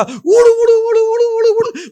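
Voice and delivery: loud, high rolling "urrr" noise; imitated fast babble. Preacher acting out the battle story, loud imitated babble.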